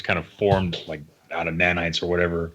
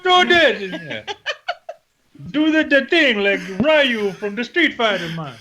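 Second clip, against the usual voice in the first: high, loud fanboy yelling; hammed-up hyped fan voice; excited cheering; 13 semitones higher, 3 dB louder, slower than usual. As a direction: shout it like a hyped kid at an arcade. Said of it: "you're like".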